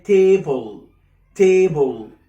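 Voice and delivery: "table" said as "tay-bol"; drawn-out "table" with o before l; added O. Shown as a demonstration. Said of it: "بتحط O من عندك". (نطق "table" بإضافة O)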